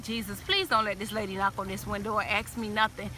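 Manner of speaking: low, soft desperate plea under the breath; hushed prayer. Retold or imitated. Hiding in the car, begging Jesus in a hushed voice. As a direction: pray quietly so no one hears.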